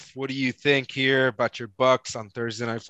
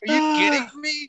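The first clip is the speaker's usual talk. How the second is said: incredulous shout; 12 semitones higher than usual. Retold or imitated. Retelling his reply to the Twitter tout, a high incredulous shout. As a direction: yell it like you can't believe it. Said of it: "And I was like".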